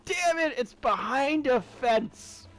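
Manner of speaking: high, loud, drawn-out complaint; high-pitched gamer frustration; exasperated outburst. Real, not acted. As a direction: wail in comic frustration at being thwarted. Crystal turns out fenced off.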